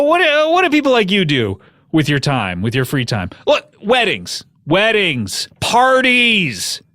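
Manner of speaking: lightly voiced sponsor read; casual ad read for the show's sponsor. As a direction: sell the Black Tux like an ad host. Reads a sponsor ad.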